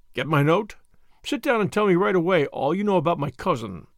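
plain

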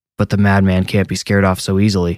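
ordinary delivery, nothing marked

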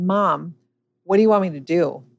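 ordinary delivery

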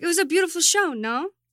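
English in put-on French accent. Imitating a woman answering in an interview, with a french accent. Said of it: "Why do you have an accent all of a sudden?".

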